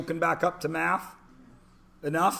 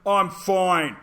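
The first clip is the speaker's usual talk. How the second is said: feigned nonchalance; 4 semitones higher, 5 dB louder, slower than usual. Retold or imitated. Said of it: "he doesn't wanna say".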